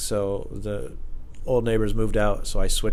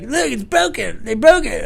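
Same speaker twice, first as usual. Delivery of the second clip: high, loud, slow insistent voice; imitated paranoid neighbor; 14 semitones higher, 8 dB louder, slower than usual. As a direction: point out the damage frantically. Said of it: "And he's like".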